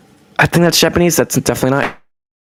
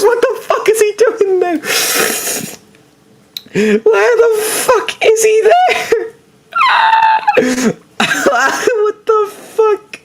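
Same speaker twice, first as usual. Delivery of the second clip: laughing. Real, not acted. Laughing disbelief at video.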